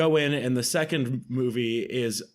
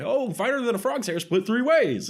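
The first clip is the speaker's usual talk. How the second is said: Foghorn Leghorn; 8 semitones higher than usual. Retold or imitated. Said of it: "real life version of Foghorn Leghorn".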